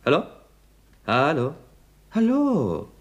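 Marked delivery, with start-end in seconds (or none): 2.1-2.9 higher, drawn-out call. Acted. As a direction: call into a silent line. Calling down a silent phone line. (fragend ins Telefon rufen)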